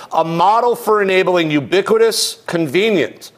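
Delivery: measured, deliberate read-aloud of a definition; formal document reading with spaced-out phrases. Real, not acted. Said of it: "Put on my reading voice".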